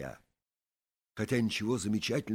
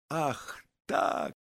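shouted retort. A narrator's reading. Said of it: "крикнул он".

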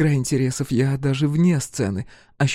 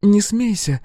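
agitated; 5 semitones higher, 4 dB louder, slower than usual. A narrator's reading. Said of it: "взволнованно отозвалась она".

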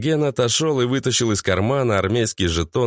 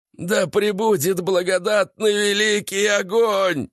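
higher, slow zealot shout; fanatic yell; 10 semitones higher than usual. A narrator's reading. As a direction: bellow it like a fanatic. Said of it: "заорал друг Алексей".

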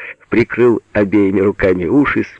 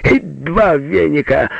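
slow, raised order; commanding; 8 semitones higher, slower than usual. A narrator's reading. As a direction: call out another demand. Continuing the shouted commands. (командным тоном, нараспев)

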